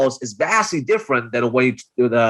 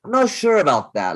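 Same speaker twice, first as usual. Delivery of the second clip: doubtful, pitched higher; skeptical voice; 5 semitones higher than usual. Shown as a demonstration. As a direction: sound unconvinced. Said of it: "you can hear my voice going up".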